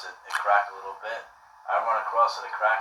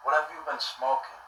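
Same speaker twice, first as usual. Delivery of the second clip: higher-pitched imitation of the grilling homeowner; suspicious homeowner; 4 semitones higher than usual. Homeowner grilling the soaked boy, in a raised mimicking voice. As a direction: ask it up high, mimicking a nosy, baffled man. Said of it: "he goes".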